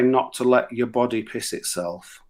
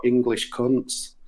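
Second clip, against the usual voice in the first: slow tic shout; 5 dB quieter, much slower than usual. Retold or imitated. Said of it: "a tic that shout".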